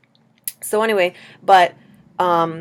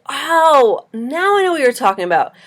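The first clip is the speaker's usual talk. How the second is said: higher, louder "oh" of recognition; acted sudden realization; 7 semitones higher, 4 dB louder than usual. Dreamer tells dream figure she understands, in exaggerated realization. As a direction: play up the penny dropping.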